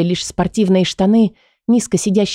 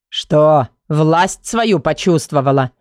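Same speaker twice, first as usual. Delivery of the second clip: mocking male voice; 3 semitones lower, slower than usual. Kai mocking her thought.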